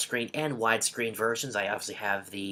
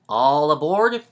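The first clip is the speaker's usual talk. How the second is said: loud, rising, drawn-out call; conductor's shout; 4 semitones higher, 10 dB louder, slower than usual. Acted. Reading the blurb's last words as the guy shouting, loud call. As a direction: holler it out like a train conductor. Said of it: "like the guy's just shouting it".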